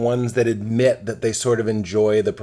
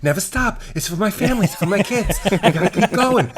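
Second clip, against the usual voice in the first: mock hustle mogul; 5 semitones higher than usual. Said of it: "They're just like".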